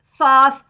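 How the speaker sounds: "Thoth" as THAWTH, soft TH at both ends; soft TH pronunciation. Shown as a demonstration. Teacher listing variants of the name, "Thoth" with soft TH. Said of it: "depending on how you pronounce that".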